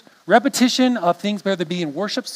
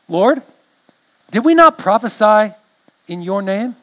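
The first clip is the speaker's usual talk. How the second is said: "Lord" set apart, long pauses between the phrases; read slowly; 3 semitones higher, 5 dB louder than usual. Shown as a demonstration. Pastor reading scripture slowly to the congregation, with pauses. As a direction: read it slow so they listen careful. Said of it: "I'm gonna read slow".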